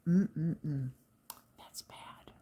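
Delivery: whispered scolding to herself. Real, not acted. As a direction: hush it as a private tut. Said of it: "whispered self-scolding".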